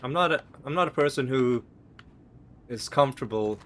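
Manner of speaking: talking around a cough drop; mouth full. Real, not acted. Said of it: "'cause I got something in my mouth".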